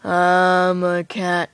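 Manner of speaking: low, slow, beastly growl; deep slow monster voice. Acted. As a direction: speak slowly and low, like a beast.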